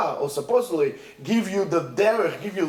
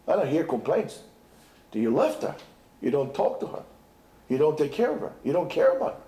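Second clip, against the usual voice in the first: lower, grave scolding; reproachful king; 6 semitones lower than usual. Acted. King scolding the husband for neglecting his daughter, grave and low. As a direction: list the wrongs heavily. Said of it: "He says".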